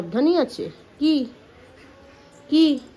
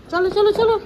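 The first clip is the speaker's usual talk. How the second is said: coaxing call; 7 semitones higher, 5 dB louder than usual. Real, not acted. Mother urging her toddler to come along, high and eager.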